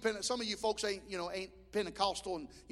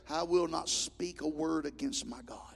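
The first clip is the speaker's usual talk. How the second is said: solemn quote; 5 semitones lower, slower than usual. Acted. Quoting Job, set against shouting.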